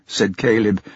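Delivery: plain reading voice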